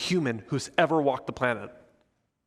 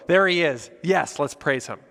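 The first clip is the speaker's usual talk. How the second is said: eager welcome; 2 semitones higher, 5 dB louder than usual. Acted. Believers seeing Jesus walk in, excited. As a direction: call it out as if spotting him.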